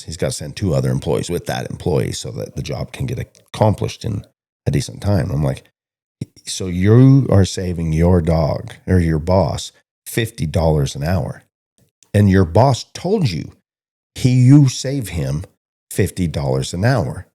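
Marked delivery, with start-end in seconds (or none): 6.5-17.3 slow, higher and louder, driving the point home; pointed lecture. Retold or imitated. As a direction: spell it out slowly like talking sense into him. Retold lecturing of the cowboy.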